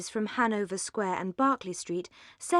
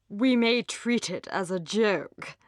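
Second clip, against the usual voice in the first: lightly voiced gentleman, slow; a hint of a rueful young man; man's voice; slower than usual. A narrator's reading. Young gentleman musing to his sister, lightly voiced. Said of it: "said he".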